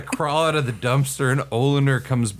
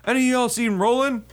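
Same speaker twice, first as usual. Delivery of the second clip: mild mock yell, raised in pitch but not volume; retold yell; 9 semitones higher than usual. First sergeant hunting for Roland in the room, mild imitated yell. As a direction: call out higher, imitating someone searching. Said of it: "and he's yelling".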